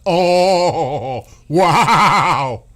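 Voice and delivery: loud, laughing "wow"; mocking laughing shout; incredulous laugh. Real, not acted. Laughing at the tariff threat.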